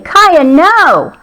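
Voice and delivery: high, falling mock yell; mild yell. A narrator's reading. Owner to dog jumping at a frog, mild yell. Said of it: "I yelled".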